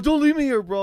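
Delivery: very high, loud mock wail; imitated begging rider. Rider begging driver in a vacant lot, mock desperate. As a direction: mimic a desperate passenger pleading. Retold rider begs not to be left.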